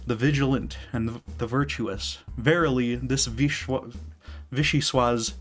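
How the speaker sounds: dramatic theatrical recital; grand villain speech reading; V monologue. Acted. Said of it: "read the thing".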